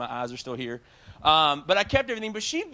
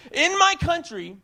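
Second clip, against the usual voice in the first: higher, slow, loud threat; mock outraged warning; imitated angry yell; 10 semitones higher, 5 dB louder than usual. Mother threatens the aquatics director, higher, slower and louder. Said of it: "she started yelling".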